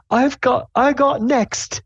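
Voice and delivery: very high, slow drawn-out claim; high eager voice. Acted. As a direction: stretch it out way up high. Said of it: "he's like".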